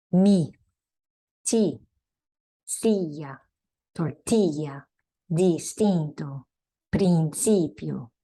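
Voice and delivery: words spaced out, "distinto" and "principio" slow; Spanish i words. Shown as a demonstration. Teacher modelling i words slowly for students. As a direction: model each word. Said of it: "The I is pronounced E".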